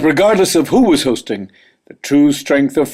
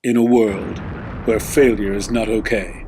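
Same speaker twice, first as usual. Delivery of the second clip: movie trailer voice; 4 semitones lower, 5 dB quieter than usual. Shown as a demonstration. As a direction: intone it like a film trailer. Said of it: "say it in my movie voice".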